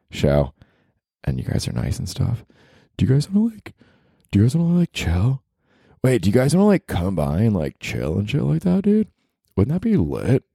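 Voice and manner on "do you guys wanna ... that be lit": mock bro voice. Mock bro invitation, high voice.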